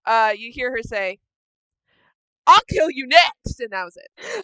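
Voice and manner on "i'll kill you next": loud, raised angry warning; yelled threat. Acted. Kira overheard threatening from the room, loud angry threat. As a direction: threaten loudly, voice pushed up. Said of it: "Absolute blood curdling, just yelling".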